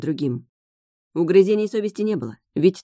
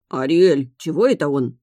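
worried crab voice; 2 semitones lower, 5 dB louder than usual. A narrator's reading. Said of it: "забеспокоился тот".

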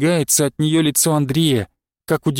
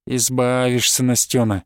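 lower, falsely soothing; mock consoling; 4 semitones lower than usual. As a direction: sneer it as comfort. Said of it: "выворачивая голос до утешения".

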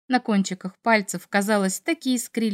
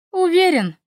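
doubtful question; 8 semitones higher, 4 dB louder than usual. A narrator's reading. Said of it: "с сомнением спросила я".

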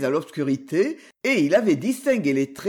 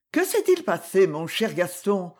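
avec douceur. Acted. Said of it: "avec douceur".

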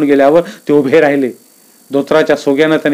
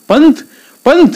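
mild panic; 6 semitones higher, 3 dB louder than usual. Acted. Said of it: "Shiva गडबडला".

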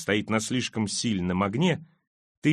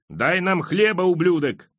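high, loud demand; angry roar; 7 semitones higher, 5 dB louder than usual. A narrator's reading. Hungry man roars at the king for bread, loud and high. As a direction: shout it up at the king. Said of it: "заревел мужчина".

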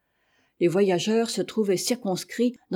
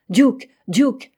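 high, loud call to a dog; 5 semitones higher, 7 dB louder than usual. A narrator's reading. Captain calls his dog into the fog, crying out. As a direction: call the name twice, voice lifting each time. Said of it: "s'écria le capitaine".

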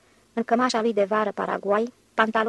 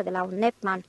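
cracked voice; 3 semitones lower than usual. A narrator's reading. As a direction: voice cracking slightly on the last words. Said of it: "rosti ultimele cuvinte cu glasul cam spart". (cu glasul cam spart)

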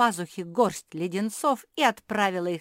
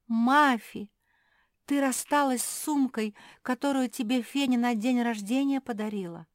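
breathy gasp, then higher astonished words; gasping surprise; 5 semitones higher, 4 dB louder than usual. Acted. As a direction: gasp at the loss. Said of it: "ахнула Капитолина". (изумлённый вздох)

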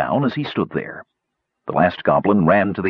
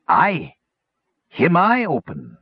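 high, slow squawking goblin; 7 semitones higher, slower than usual. A narrator's reading. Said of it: "squawked the warty one".

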